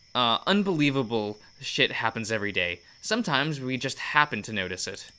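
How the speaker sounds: a loose, hammed-up Irish accent; bad Irish accent. Quoting grandma's saying to Ken in a bad Irish accent. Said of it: "I chuckle at my bad Irish accent".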